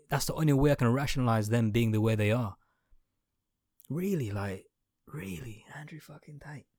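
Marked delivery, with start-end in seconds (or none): 3.9-6.7 whispered disbelief at the name; exasperated whisper. Real, not acted. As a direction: breathe it out, fed up. Exasperated aside.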